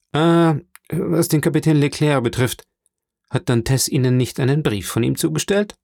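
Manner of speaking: a hint of a sly informer probing; insinuating Danglars. (leicht angedeuteter lauernder Intrigant)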